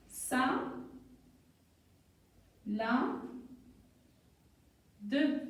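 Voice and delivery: "Sa, la, de" with long pauses between; syllable by syllable. Shown as a demonstration. Teacher building a word, "Sa, la, de" widely separated. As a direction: hold each syllable apart before blending. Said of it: "un petit jeu de lecture".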